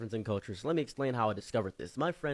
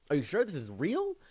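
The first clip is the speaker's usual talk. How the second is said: high, odd-voiced questioning; mock doubtful question; 7 semitones higher than usual. The narrator doubts his friend, high and odd-voiced. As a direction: ask it warily.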